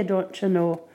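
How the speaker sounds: lightly put-on Irish accent; a hint of a joking Irish lilt; bad Irish accent. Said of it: "I know, bad Irish accent".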